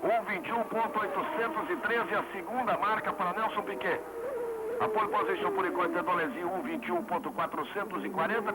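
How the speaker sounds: excited live timing call; motorsport commentator. Real, not acted. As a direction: call out the new lap time. Live call of lap time.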